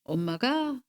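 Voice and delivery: ordinary delivery, nothing marked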